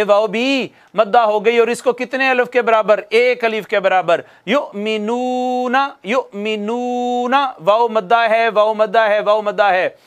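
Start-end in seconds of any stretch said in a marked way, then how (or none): 4.5-7.6 slow, drawn-out chanted recitation; Quran recitation. Shown as a demonstration. Teacher reciting the verse for students, slow chanted recitation. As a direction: recite each word slowly, stretching the vowels. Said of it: "teacher recites for students".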